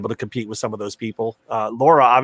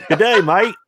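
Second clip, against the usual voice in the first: hammed-up high Aussie "Good day, Mike"; a cliché Aussie greeting, played for laughs; Australian accent; 10 semitones higher than usual. Shown as a demonstration. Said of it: "I don't do".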